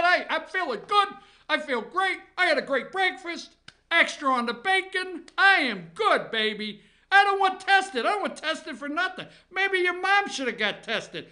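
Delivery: a hint of Trump shrugging off the test; Trump impression. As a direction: brag like a swaggering president. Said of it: "That's just something Trump would say".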